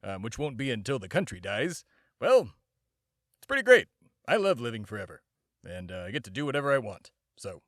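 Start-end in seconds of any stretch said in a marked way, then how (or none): 2.2-5.2 forced cheer. Acted. Immortal insisting to a child that forever is great, loud forced cheer.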